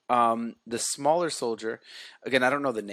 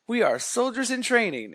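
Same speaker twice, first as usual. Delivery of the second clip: sheepish cadets; 11 semitones higher than usual. Retold or imitated. Cadets answer Buzz sheepishly.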